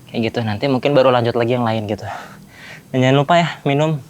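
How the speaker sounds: panting between words after push-ups; out of breath. Real, not acted. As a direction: talk while catching your breath. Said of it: "Ini ngos-ngosan buat gua". (ngos-ngosan habis push-up)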